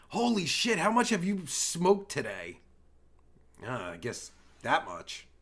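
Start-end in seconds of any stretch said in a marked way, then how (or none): none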